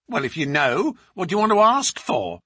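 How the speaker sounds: a touch of surly challenge; lightly voiced servant answering back; defiant servant woman.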